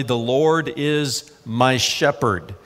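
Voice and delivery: slow, gentle "The Lord is my shepherd"; tender reading. Acted. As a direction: read it like a cherished prayer, unhurried. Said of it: "David wrote very tenderly".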